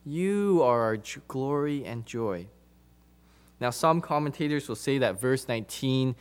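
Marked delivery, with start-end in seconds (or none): 0.0-2.5 "you" held long for emphasis; emphatic you. Retold or imitated. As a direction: lean on the word "you". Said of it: "he's emphatic".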